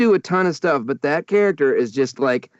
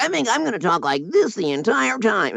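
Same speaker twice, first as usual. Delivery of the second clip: weird cartoon voice; 4 semitones higher than usual. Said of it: "they do some weird cartoon choice".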